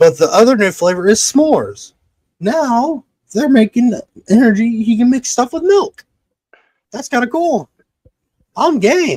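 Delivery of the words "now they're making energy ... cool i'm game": much higher, squeaky chatter. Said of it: "If your voice goes any higher".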